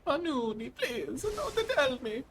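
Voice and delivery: high, slow little victim voice; mock pleading. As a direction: beg for mercy in a drawn-out squeak. Voices a victim begging Panuni.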